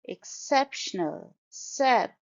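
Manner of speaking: Exceptional leaning on SEP, then sep alone; stressed second syllable. Shown as a demonstration. Teacher models Exceptional, stress on second syllable. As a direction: put the weight on sep in Exceptional. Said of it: "stress is on the second syllable".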